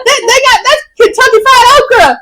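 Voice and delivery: loud, giddy mock Southern accent; strong Southern accent. Mimicking herself talking to Bailey, exaggerated Southern accent. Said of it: "that's me when I fucking talk to Bailey".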